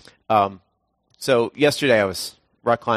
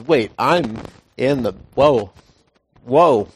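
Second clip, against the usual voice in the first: startled Peter; 5 dB louder, slower than usual. Retold or imitated. Peter notices the wind.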